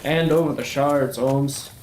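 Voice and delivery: a country-boy Southern accent played for laughs; put-on Southern accent. Gamer chatting to viewers in a mild mock Southern accent. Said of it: "I feel like I should be offended by this accent".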